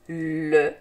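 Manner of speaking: "Le souvenir" drawn out le - sou - ve - nir; syllable by syllable. Shown as a demonstration. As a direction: stretch every sound of "Le souvenir", pausing between syllables. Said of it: "des syllabes qui se donnent la main".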